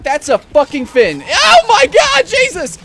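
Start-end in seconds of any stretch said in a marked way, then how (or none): 1.2-2.8 long, drawn-out high shriek; terrified scream. Real, not acted. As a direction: scream it out slowly in fear. Shark attack panic.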